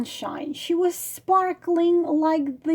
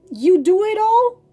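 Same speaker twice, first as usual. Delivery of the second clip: higher, louder commands, pushing hard; bossy demand; 4 semitones higher, 4 dB louder than usual. Acted. Frog orders the girl to obey him, bossy and loud. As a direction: lay down the law to the girl.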